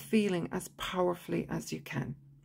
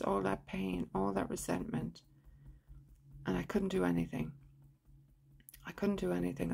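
understated hurt, recited evenly with pauses; guided tapping script; 6 dB quieter than usual. Shown as a demonstration. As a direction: voice the grievance in a subdued, measured way. Models tapping script about hurt.

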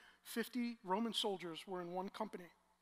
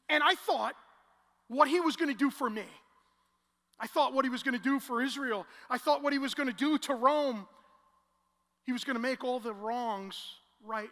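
loud preached lament; 4 semitones higher, 11 dB louder than usual. Acted. Disciple's dashed hopes, preached loud.

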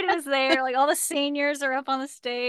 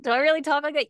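mock husband voice; lightly teasing imitation of a husband; Jed; 3 semitones higher, faster than usual. Wife making fun of her husband, mocking imitation. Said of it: "use that voice when I'm making fun of Jed".

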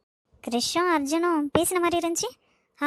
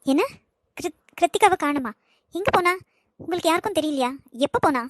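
raised, alarmed questions fired off; panicked shouting. Acted. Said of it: "லபோதிபோன்னு ஏன்டா கத்துற". (பதற்றத்துடன் கத்துதல்)

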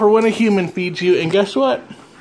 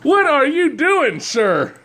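laughing scold; 3 semitones higher, slower than usual. Real, not acted.

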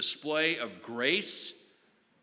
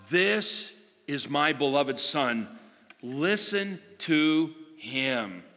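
commanding heavenly voice; much slower than usual. Acted. Voice from the cloud to the disciples, slow and commanding. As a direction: announce it from the cloud.

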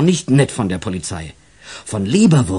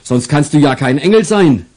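a hint of a chuckling officer; jovial policeman; 4 semitones higher, 4 dB louder than usual. The police officer teases the angel boy, lightly jovial. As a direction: tease the boy like a friendly cop.

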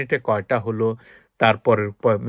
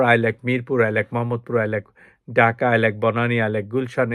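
example sentences. Shown as a demonstration. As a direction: model sentences naming Dhaka places. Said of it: "তারপর". (উদাহরণ বাক্য)

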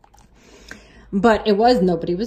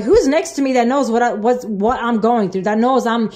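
puzzled and agitated; surprised; 2 semitones higher than usual. Retold or imitated. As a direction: retell it as bewildered, urgent self-talk. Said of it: "'cause I was surprised".

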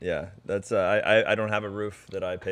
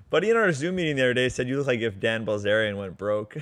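laughing. Real, not acted. Retelling a joke, laughing.

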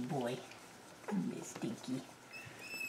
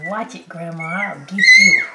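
puppy voice; 14 dB louder than usual. Pretend. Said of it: "he says".

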